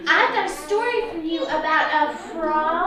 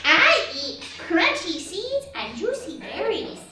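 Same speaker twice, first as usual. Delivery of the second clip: squeaky high little mouse; 5 semitones higher than usual. Acted. Teacher voicing the mouse for the children, squeaky high. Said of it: "replied the mouse".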